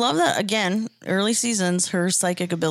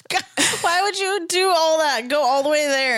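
incredulous; 8 semitones higher than usual. Real, not acted. Laughing disbelief.

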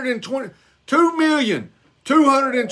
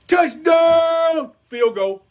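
shouted call; 5 semitones higher, much slower than usual. Retold or imitated. Mock scoring call.

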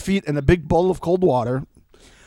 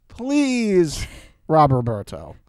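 high, louder hammed-up begging; mock desperate plea; 7 semitones higher, 5 dB louder, slower than usual. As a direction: beg him dramatically, half joking. Mock plea to a show contestant.

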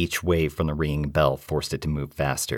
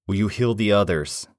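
grunted; 6 semitones higher than usual. Acted. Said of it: "I grunted".

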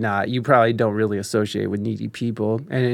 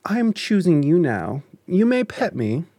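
snooty bored cat. Retold or imitated. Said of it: "and they're just like".

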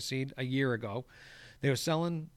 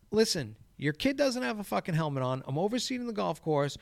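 higher-pitched telling-off, not shouted; retold scolding; 5 semitones higher than usual. Groundskeeper confronting a dad about his kid, retold scolding. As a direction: lay down the law, as retold.

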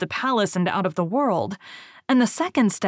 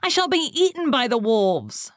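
sobbing; 6 semitones higher than usual. A narrator's reading. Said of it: "she sobbed".

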